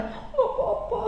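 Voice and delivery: high whispered sulk, half laughing; spoiled sulky reply. Acted. Wife brushing off her husband's question, whispered pouty sulk. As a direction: answer like a pouting spoiled wife. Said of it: "Sosok manja gitu kan".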